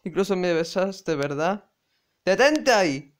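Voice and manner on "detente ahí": loud sharp order; shouted stop. Acted. Kazuma yells to stop the girl's embarrassing story, loud. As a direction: yell to cut her off.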